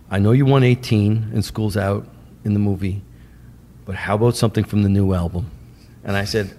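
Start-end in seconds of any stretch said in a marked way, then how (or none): 0.1-5.5 lightly imitated calm New York manager; a hint of a deep, reasonable deal-maker; Shep Gordon. Manager pitching a new song to filmmaker, calm. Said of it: "He talks like this. Very, very deep".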